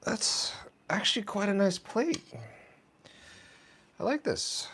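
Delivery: soft whisper to herself; breathy aside, barely voiced. Real, not acted. Muttering to self while plating.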